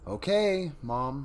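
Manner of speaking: put-on high, loud childish "Okay, Mom"; little girl voice. Shown as a demonstration. Streamer's first try at the daughter's reply, high and loud. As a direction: squeak it out like a small girl. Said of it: "I feel like I could have said that better".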